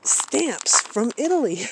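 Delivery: high, loud, slow imitation of awe; super appreciative. Artist friend marveling at the postcard's stamps, super appreciative. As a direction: draw it out like an amazed collector. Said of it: "he's super appreciative".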